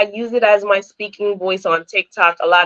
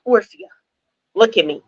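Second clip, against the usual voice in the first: retold insistent stepsister, pitched higher midway; imitating stepsister; 3 semitones higher, faster than usual. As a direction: mimic a stepsister demanding to be copied. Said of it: "I knew how to talk like her".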